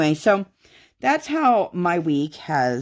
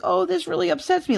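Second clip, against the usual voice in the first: much higher, fast, mock-fussy whine; mock upset; faster than usual. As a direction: toss it off as a dainty fake complaint, quick and high. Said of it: "or like".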